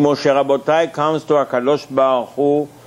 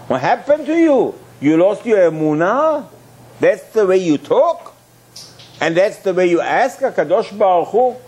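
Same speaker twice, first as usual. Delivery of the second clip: higher, indignant reproach; scolding rebuke; 4 semitones higher than usual. Acted. Preacher rebuking Moshe Rabbeinu, indignant. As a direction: scold him like a shocked elder.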